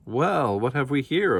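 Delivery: a guard's sneering, lightly voiced taunt; mild mock gruff guard; gruff snicker. A narrator's reading. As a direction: sneer it like a guard who caught someone. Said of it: "a gruff voice snickered".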